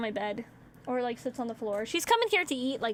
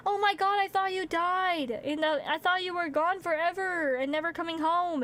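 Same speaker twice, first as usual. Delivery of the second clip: overjoyed dog; 5 semitones higher than usual. Retold or imitated. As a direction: gush like a dog reunited with its owner. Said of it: "And then they're happy".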